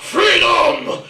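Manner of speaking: high, hammed-up rallying cry; Alex Salmond. Politician rousing Scotland for independence, high mock battle cry. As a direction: bellow it like a Scottish battle cry. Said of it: "Alex Salmond was just saying".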